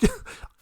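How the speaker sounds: unvoiced high laugh; a little airy giggle; breathy giggle. Real, not acted. Laughs at himself.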